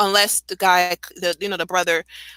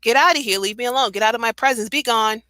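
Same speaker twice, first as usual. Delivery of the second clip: mock shooing away; 3 semitones higher than usual.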